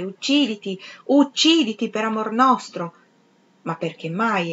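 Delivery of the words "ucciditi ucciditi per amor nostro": a touch of a shouted command; understated cry, rising on the second ucciditi; mild shouting. Acted. The whole world crying at Septimus, mildly shouted. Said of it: "insorgeva a gridare".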